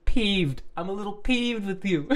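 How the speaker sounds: high, loud, tickled repeat of PEEVED; amused mocking. Real, not acted. Reader tickled by strange word choice, amused mocking.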